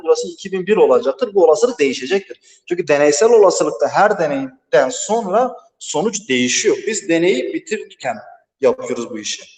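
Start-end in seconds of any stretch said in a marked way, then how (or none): 2.7-9.4 echoing in an empty classroom; cave echo. Real, not acted. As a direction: voice ringing with room echo. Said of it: "Sesim yankı yapıyor".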